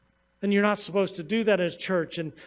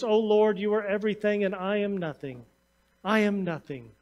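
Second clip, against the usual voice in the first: softer, humble murmur of devotion; gentle voice; 3 dB quieter than usual. Retold or imitated. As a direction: let "I am nothing" fall softly, humbly. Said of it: "in a gentle voice".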